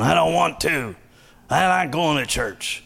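whiny refusal from upstairs; son yelling down. Acted. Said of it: "And he yells down".

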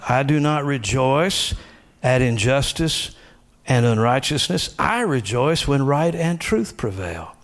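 high, slow declaring of scripture; spoken confession. Shown as a demonstration. Pastor reading personalized scripture to church, high declaring. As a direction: proclaim each line as your own creed. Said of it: "speak it out loud like the confessions".

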